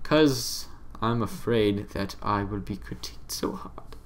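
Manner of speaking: half-whispered, a little embarrassed; hushed aside. Real, not acted. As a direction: drop to a whisper on the confession. Fearful confession, hushed aside.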